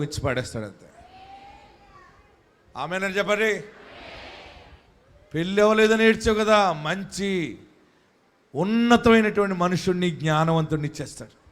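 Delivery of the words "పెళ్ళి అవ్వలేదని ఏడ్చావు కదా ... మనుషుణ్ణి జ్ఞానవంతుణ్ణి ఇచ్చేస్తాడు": louder sermon promise; rousing preaching. Acted. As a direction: lift the promise to the listeners. (ఉత్సాహంగా చేసే ప్రసంగం)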